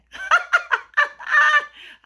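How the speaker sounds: high, loud peal of laughter; real laugh. Real, not acted. Host laughing at relating to the dinner, high loud laugh. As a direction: burst out laughing at your own point. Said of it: "I had to laugh".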